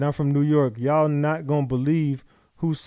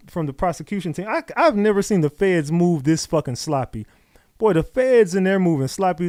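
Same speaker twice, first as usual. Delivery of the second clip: worked-up rant; 3 semitones higher, 5 dB louder than usual. Real, not acted. Ranting at the trial.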